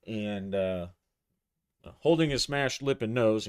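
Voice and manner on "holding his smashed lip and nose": louder restatement; louder repeat. Shown as a demonstration. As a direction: repeat the phrase clearly over the noise. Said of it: "in case I covered up my audio too much".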